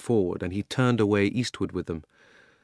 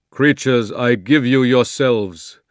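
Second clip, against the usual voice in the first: loud, slow, ringing lion's voice; strong, happy voice; 2 semitones higher, 8 dB louder, slower than usual. Acted. Aslan giving the creatures themselves, strong and happy. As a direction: proclaim it like a glad king. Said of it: "said the strong, happy voice of Aslan".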